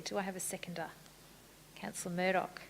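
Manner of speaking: ordinary talk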